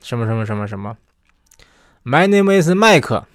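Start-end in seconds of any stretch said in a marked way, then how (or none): 2.0-3.2 slow, high, mock Chinese-English accent with vowels added after the consonants. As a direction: imitate a Chinese learner saying it in a Chinese-English accent. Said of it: "他还这么说".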